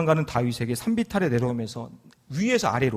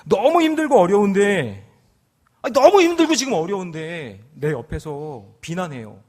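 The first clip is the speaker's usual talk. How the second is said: 너무 stretched and raised, louder; emphatic preaching; 3 semitones higher, 7 dB louder than usual. Real, not acted. Pastor stressing hardship to church, emphatic. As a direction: lean hard on 너무.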